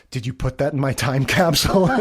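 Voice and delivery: giggling Michael line; laughing through the quote. Retold or imitated. Host retelling Michael's joke, laughing. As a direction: laugh while quoting.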